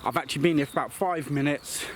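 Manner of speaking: breathless after a run; panting lightly between words; out of breath. Real, not acted. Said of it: "I'm a bit out of breath".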